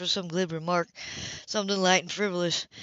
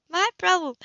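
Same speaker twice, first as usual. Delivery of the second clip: higher, louder, sharp self-blame; self-reproach; 11 semitones higher, 7 dB louder than usual. A narrator's reading. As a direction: snap it at yourself. She scolds herself.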